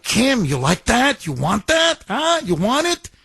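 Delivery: a mock sales pitch that rises to a high "Huh?"; teasing taunt. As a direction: dangle it in front of him, coaxing. Officials taunting Kim with footage.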